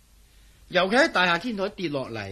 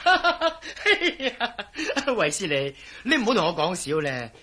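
laughing through the words in disbelief; amused scoffing; 3 semitones higher, slower than usual. Acted. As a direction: chuckle it off as nonsense. Mocking the invisible-man idea.

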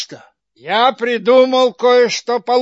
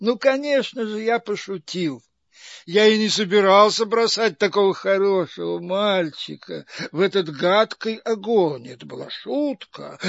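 fake sweetness; 4 dB quieter than usual.

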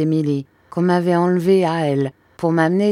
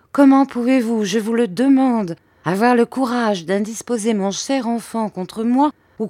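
high, louder accusing outburst; indignant mother; 6 semitones higher, 3 dB louder than usual. A narrator's reading. Mother accusing Peggotty of turning her son, high indignation. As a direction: demand an answer, pitch raised.

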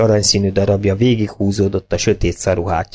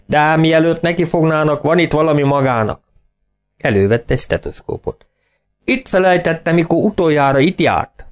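higher, sly country farmer voice; teasing farmer; 6 semitones higher than usual. A narrator's reading. Farmer teasing Siegfried about forgotten tools, sly and higher. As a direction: hand it over with a sly grin.

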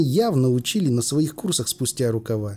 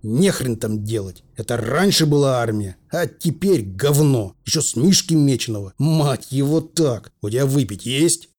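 put-on gruff old general. Old general cursing today's army, gruff grumble.

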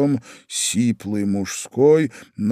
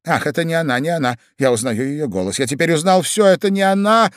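turning deathly pale; 6 semitones higher, 4 dB louder, faster than usual. A narrator's reading. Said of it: "побледнев, как платок".

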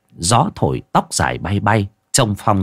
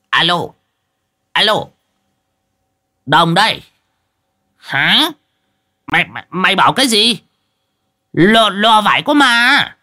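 much higher, rushing flustered voice; panicked phone call; 11 semitones higher than usual. A narrator's reading.

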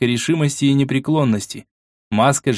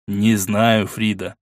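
with a sigh; much slower than usual. Acted. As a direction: breathe the words out on a sigh. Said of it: "со вздохом ответил эрцгерцог".

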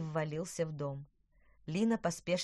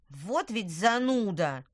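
shouting; 6 dB louder, slower than usual. Acted. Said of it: "крикнул Луис".

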